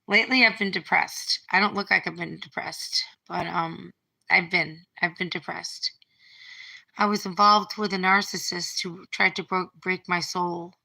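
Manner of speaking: hushed and heavy, barely voiced; quiet, subdued confession. Real, not acted. Telling viewers about her depression, quiet and sad.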